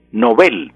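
"Nobel" stressed on the last syllable, no-BEL; "Nobel" ending on a stressed "bel"; Swedish stress. Shown as a demonstration. Teacher on radio giving the Swedish original, stress on BEL. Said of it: "en sueco es".

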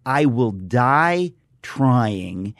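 slow, resolute vow; each word weighed slowly, "die" drawn out; slow resolve. Retold or imitated. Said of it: "You would say".

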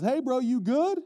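loud, high call across water; distant shouted check. Retold or imitated. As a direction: holler to a far-off friend. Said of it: "It's further away than I expected".

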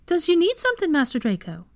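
high-pitched house-elf voice; squeaky, eager-to-serve question; servile elf. Acted. Elf offering help to master, high and servile.

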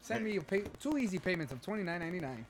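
mock scam pitch. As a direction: pitch it like a phony seller. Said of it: "do a video like that now".

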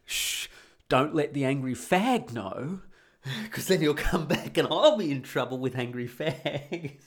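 hushed laughing plea, slowing down. Retold or imitated. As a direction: giggle it out like you're afraid to be caught. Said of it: "we're all laughing in a way like".

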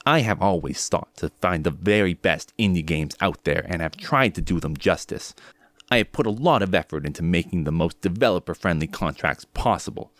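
lightly voiced YouTuber impression; a hint of a deadpan YouTuber read; Dunkey impression. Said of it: "I'm gonna try to do my best Video Game Dunkey impression".

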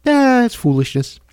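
high, put-on dismissive voice; mocking Democrats. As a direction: sneer it out like a smug party insider. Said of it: "Democrats are like".

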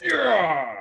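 loud, high celebratory yell; triumphant cheer. Real, not acted. Contestant told the answer is correct, triumphant cheer. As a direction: cheer your own win.

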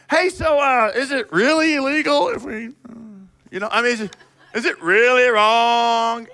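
a hint of a wheedling Pharisee testing the line. Preacher imitates the Pharisees asking what they can get away with, mild wheedling. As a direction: bargain sheepishly, as if hunting a loophole. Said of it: "This is what they're saying".

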